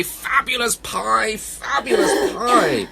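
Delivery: high, slow, drawn-out call; bear calling upward. Acted. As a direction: call up to the branches. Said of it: "he asked the branches high".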